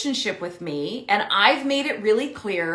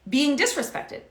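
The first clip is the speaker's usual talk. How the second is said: ordinary talk, nothing marked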